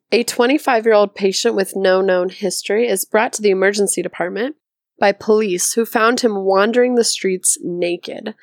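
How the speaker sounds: normal talking voice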